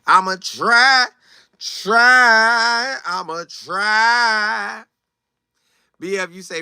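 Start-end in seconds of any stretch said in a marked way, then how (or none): 0.1-4.8 slow, stretched I'ma try; drawn-out mock. Shown as a demonstration. Host mocking the viewer, very slowly stretched. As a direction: drag out try like a long sigh. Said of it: "drawn out repeat".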